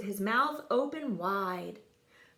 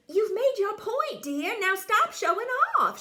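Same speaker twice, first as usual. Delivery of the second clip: high, loud wifely scolding; mother scolding the showing-off father; 11 semitones higher, 4 dB louder than usual. A narrator's reading. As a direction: tell him off sharply. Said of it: "she scolded".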